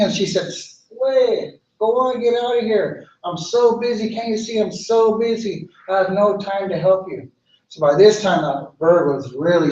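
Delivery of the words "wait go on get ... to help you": higher, harried brush-off; busy and impatient. Acted. Tanoak tells the little bird to leave, high and impatient. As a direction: wave them off, too busy to help.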